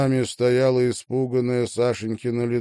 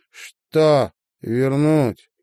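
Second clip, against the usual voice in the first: slow, louder menacing question; sinister; 5 semitones higher, 6 dB louder, much slower than usual. Acted. Marina closing in on Sasha in the dark hallway, sinister. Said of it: "зловеще спросила Марина".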